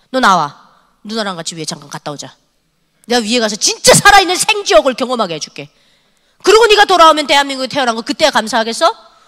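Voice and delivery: retold scolding. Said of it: "저한테 혼나는 날이에요".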